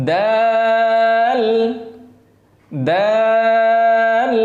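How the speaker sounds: দাল held long and even as the Arabic dāl; drawn clear দাল; plain dal. Shown as a demonstration. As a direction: slowly model দাল. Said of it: "দাল আর এটা হচ্ছে দদ".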